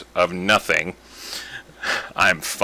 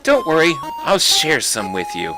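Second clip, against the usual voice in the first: Flowey; 4 semitones higher than usual. Acted. Flower reassuring the player, sweet. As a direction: coo like a friendly flower. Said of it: "my superb voice acting".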